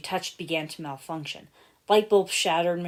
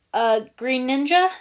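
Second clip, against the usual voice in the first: raised, higher call down the hallway; 7 semitones higher, 9 dB louder than usual. A narrator's reading. Henchman calling down the smoky hallway, raised voice. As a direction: call out for the missing boss's son. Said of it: "he called, still coughing slightly".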